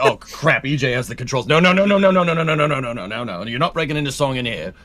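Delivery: lightly hammed-up English accent, rattled string of no's; mock-British fussing, a Monty Python bit; Monty Python impression. Teasing a co-host over the stream controls, light Monty Python impression. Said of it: "that was Monty Python".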